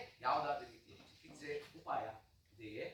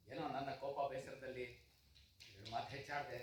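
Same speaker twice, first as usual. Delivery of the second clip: softer, subdued apology; apologetic; 4 semitones lower, 8 dB quieter than usual. Acted. Father apologising to doctor after outburst, subdued. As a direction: back down quietly and contritely.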